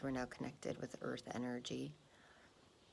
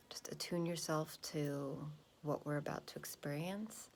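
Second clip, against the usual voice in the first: calm grounding exercise. Acted. Meditation instruction.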